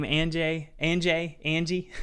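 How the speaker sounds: "Anjay" as AN-jay, then "Angie"; guessing the name. Real, not acted. Reading a supporter's name aloud, trying versions. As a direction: fumble through guesses at the name. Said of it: "however you say your name".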